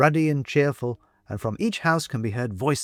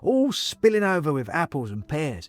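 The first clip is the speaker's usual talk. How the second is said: put-on higher, cockney-tinged old man voice; china man character; 5 semitones higher than usual. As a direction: voice the chatty porcelain man, raised pitch.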